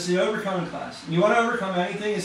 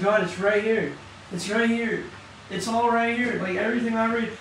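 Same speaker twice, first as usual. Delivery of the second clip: fervent insistence; 6 semitones higher than usual. Real, not acted. Preacher insisting to God.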